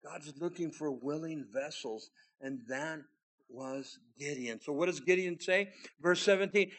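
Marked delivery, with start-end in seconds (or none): none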